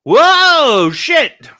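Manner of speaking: loud, high-pitched cry of alarm; big acted shock; startled yell. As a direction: yelp it as if jumped out at. Acting out the startling next panel.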